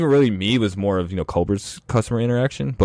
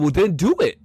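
imitated African accent; 8 semitones higher than usual. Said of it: "he, like, with this accent".

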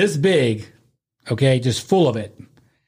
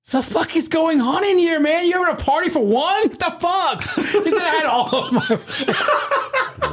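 laughing through quote. Retold or imitated. Buddy finds him in bathroom.

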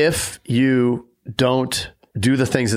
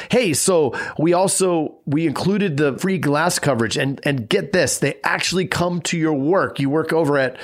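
bright, eager salesman voice; upbeat sales pitch; 4 semitones higher than usual. Retold or imitated. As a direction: sell it with a grin. Agent pitching glass coverage to client.

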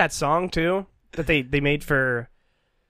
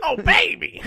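Jon Lovitz impression; 11 semitones higher than usual. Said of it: "That was his voice".

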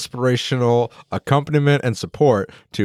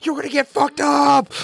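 hype man; 13 semitones higher, slower than usual. Retold or imitated. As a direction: bounce around taunting the enemy. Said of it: "her hype man".

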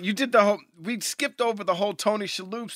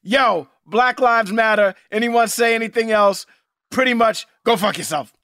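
blunt declaration; 6 semitones higher, 9 dB louder than usual. Retold or imitated. Co-host retelling company's statement, loud and blunt. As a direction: declare it emphatically, phrase by phrase. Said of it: "straight up said".

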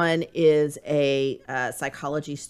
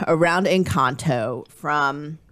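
Southern accent; slower than usual. Real, not acted. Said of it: "I said that with such a Southern accent".

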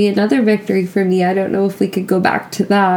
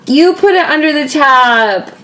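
indignant; 4 semitones higher than usual. Real, not acted. Drunk quarrel over the card.

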